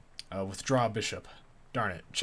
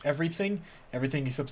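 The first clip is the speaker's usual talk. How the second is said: high, rising disbelieving question; can't believe it's all gone; dismayed at the burned luggage; shocked disbelief; 5 semitones higher, faster than usual. Real, not acted.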